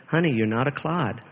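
a touch of the wife's gentle coaxing. Retold or imitated. Husband retelling how his wife gently reassured him, soft and tender. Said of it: "came up to me just very gently".

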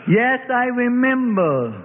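put-on high, slow creaky old man's voice; a cracked old codger's reply. A narrator's reading. Old witness answers the prosecutor in a cracked voice. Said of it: "the old man cracked".

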